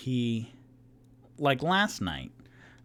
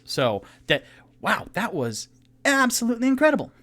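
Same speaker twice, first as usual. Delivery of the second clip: high, loud gushing compliment; excited praise; 7 semitones higher, 5 dB louder than usual. Acted. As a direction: gush over the song, way up high. DM voicing Rock, excited.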